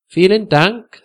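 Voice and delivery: high, smiling thank-you; friendly thanks. A narrator's reading. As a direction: thank the guest with a friendly lift. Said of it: "mit einem freundlichen Lächeln".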